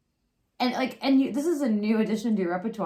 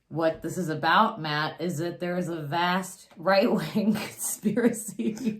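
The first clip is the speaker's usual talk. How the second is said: Hillary Clinton impression; 2 semitones lower than usual. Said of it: "Hillary Clinton in nineteen ninety-eight".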